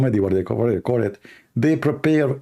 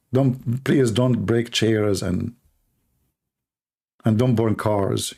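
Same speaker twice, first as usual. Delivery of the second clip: slow, drawn-out mock plea; mock pleading; much slower than usual. Asking Moroccan viewers to behave, mock slow plea. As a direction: spell out each word slowly, teasing.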